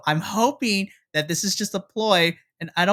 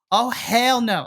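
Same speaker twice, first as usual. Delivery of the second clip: sassy retort; 5 semitones higher, slower than usual. Retold or imitated. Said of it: "'cause Gigi's like".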